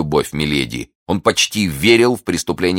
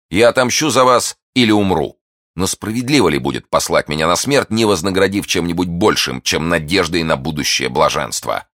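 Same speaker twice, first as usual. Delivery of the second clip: raised, fervent lover's voice, easing down; ardent young gallant, pleading; 3 semitones higher, 4 dB louder than usual. Acted. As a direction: vow boldly, then bargain for reward. Narrator voices the ardent suitor. (пылкий влюблённый, с жаром)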